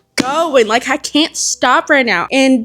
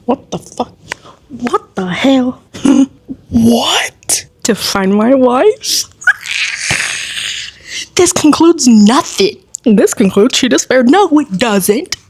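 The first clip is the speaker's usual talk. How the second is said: real shocked outburst; 2 semitones higher, slower than usual. Real, not acted. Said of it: "I'm screaming right now".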